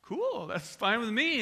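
high, drawn-out happy reaction; slow, lifted, easygoing approval; pleased acceptance. Retold or imitated. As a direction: play a customer pleasantly taken by surprise. Acted pleased customer accepting free food.

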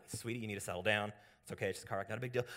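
imitated low, easy reassurance; retold soothing. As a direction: settle someone down gently. Soothing the panicking driver.

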